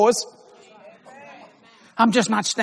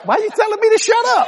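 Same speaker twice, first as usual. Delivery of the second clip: retold thought; 13 semitones higher, 3 dB louder, faster than usual. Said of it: "I thought".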